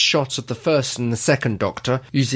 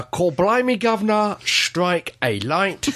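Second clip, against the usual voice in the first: a hammed-up Mockney accent, pitched higher and drawn out; overdone Mockney cockney, slow and showy; reading the listener's email in a jokey Mockney accent; 6 semitones higher than usual. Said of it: "please don't read this out in the awful Mockney accent".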